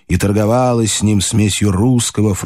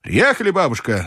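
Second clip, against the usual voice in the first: higher-pitched call without volume; calling out, understated; 8 semitones higher, 4 dB quieter than usual. A narrator's reading. Narrator telling grandmother they have arrived, calling out. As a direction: call out lightly to announce arrival. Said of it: "закричал я".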